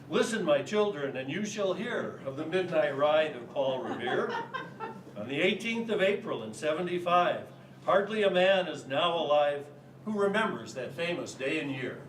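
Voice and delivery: lightly declaimed opening verse, measured phrasing; poem recitation. Acted. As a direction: recite the famous ballad to a listening audience.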